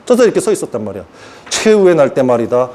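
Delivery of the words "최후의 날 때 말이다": a lightly hammed God voice; deep voice of God. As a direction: speak 최후의 low and grave as God. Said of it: "여호와께서 뭐라 그랬냐면".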